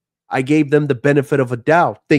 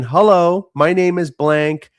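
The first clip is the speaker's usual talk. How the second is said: spam caller voice; 3 semitones higher than usual. Retold or imitated. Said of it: "those spam calls saying".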